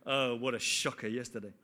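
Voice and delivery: low, laughing aside. Real, not acted. Preacher laughing about the cricket result. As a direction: chuckle it off as a quick aside.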